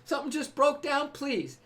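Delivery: lightly voiced pleading presence; divine voice pleading. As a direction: beg gently but eagerly to take the thought. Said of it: "whispering sweet nothings".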